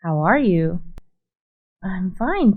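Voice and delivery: ordinary talk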